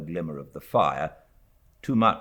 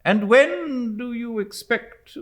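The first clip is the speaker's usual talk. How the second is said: put-on brisk, loud, higher old-lady bark; stern old aunt; 7 dB louder, slower than usual. A narrator's reading. Stern aunt to frightened niece, curt demand. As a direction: demand an answer curtly. Miss Betsy questions mother.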